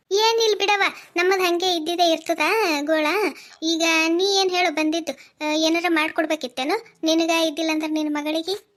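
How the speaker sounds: loud, irritated retorts; angry snapping. Acted. Sister-in-law brushes off Pooja loudly, irritated. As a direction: snap back at her, fed up.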